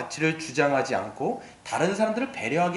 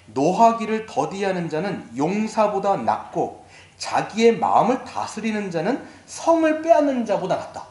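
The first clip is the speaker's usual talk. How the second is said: slow, emphatic verse reading; scripture recitation. Acted. Preacher quoting Proverbs to the congregation, deliberate recitation.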